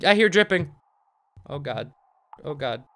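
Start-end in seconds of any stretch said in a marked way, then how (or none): 1.5-2.8 low, very soft dread; hushed dread. Real, not acted. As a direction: say it small and low, under your breath. Dreading what comes next.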